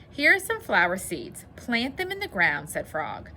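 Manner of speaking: put-on expressive read-aloud to children; measured storybook narration with lively dialogue; story reading. A narrator's reading. Teacher reads Frog and Toad to boys and girls, storybook narration.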